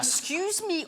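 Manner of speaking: slow, courteous interruption; playing the courteous rioter; mock politeness. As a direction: politely ask for attention, unhurried. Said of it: "they simply politely went".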